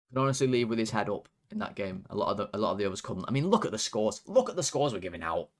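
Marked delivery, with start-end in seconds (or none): none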